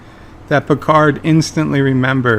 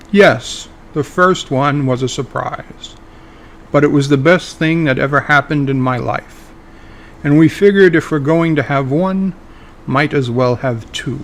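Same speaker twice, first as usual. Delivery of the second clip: Picard, mildly annoyed. Acted. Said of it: "mildly annoyed".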